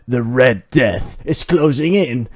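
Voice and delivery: loud, excited score update; excited announcer. Acted. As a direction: hype up the scoreboard.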